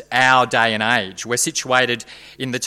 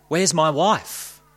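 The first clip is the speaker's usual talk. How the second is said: choked; 3 semitones higher, much slower than usual. Acted. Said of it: "he choked".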